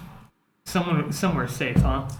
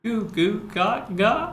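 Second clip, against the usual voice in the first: put-on slow cooing baby gibberish; baby babbling; 4 semitones higher, 3 dB quieter, slower than usual. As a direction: babble like a toddler, slowly. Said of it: "Give me your baby impression".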